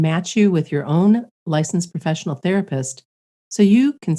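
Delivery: lightly polished podcast ad read; sponsor ad read. Acted. Podcast host pitching the sponsor to listeners, sponsor ad read. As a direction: read the sponsor copy clearly and evenly.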